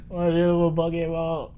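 high hammed-up lover's voice; a high mock love-struck croon; mock romantic. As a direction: croon it with overblown affection.

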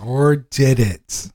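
slow, teasing ominous echo; mock ominous. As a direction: draw it out like a spooky trailer. Echoing teasing question.

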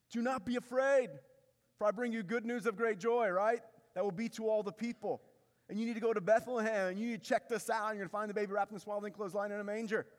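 angel's announcement. Retold or imitated.

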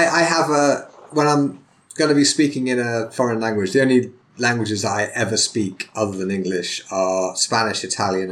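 normal talking voice

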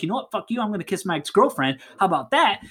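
quick mock-defiant dare; acted one-upmanship; heated challenge. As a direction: throw down a rival's challenge, fast. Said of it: "it's gotta be a really heated".

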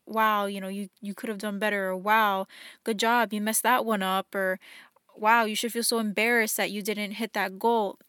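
belittling inner voice. Retold or imitated. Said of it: "mean or belittling".

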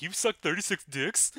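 lightly voiced James Dean, slow; a hint of a brooding James Dean; James Dean impression. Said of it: "James Dean is like".

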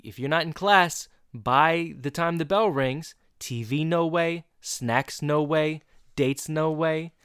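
slow, emphatic mock-teacher threat; stern warning. Teacher warns students about being late to class, mock stern.

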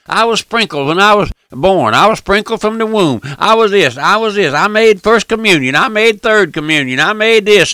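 hammed-up proud list of sacraments; mocking a churchgoer. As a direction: rattle off the rituals like a smug churchgoer. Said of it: "Just profess".

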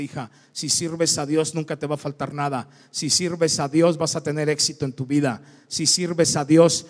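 a lightly building sermon refrain; preaching refrain. Acted. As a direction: preach it, each line rising.

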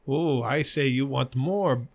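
mock broken-English Asian accent, slow; lightly put-on Asian accent, drawn out; imitated Asian accent. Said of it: "I'm sorry for the accent".

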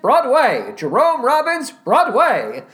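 mock-grand announcer's "Broadway", punched out; Jason Alexander. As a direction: imitate a theatrical host proclaiming "Broadway". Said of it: "The way he pronounces Broadway".

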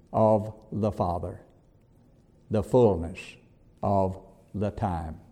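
soft, low and slowing; hushed preaching. Acted. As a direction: bring the room down to a hush. Sermon drops to hush.

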